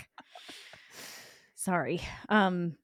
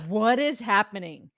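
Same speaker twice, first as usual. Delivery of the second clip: scolding inner voice; 3 semitones higher, 4 dB louder than usual. Retold or imitated. Voices the panicking mind's scolding.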